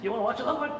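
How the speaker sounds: asked through a giggle, voice lifting; laughing temptation. Retold or imitated. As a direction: coax with a guilty laugh. Tempting wife into another episode.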